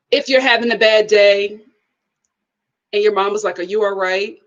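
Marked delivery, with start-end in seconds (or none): 3.6-4.4 lightly voiced low, concerned mom; a hint of a knowing mother, low; Black mom voice. Mom checking on her child, knowing mom voice. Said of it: "that black mom voice".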